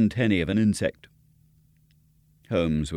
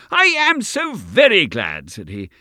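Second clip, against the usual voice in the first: higher, louder, eager relief; overjoyed to find the lost stick; Mortimer's delighted cry; joyful exclamation; 9 semitones higher, 5 dB louder than usual. Acted. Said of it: "with an exclamation of joy".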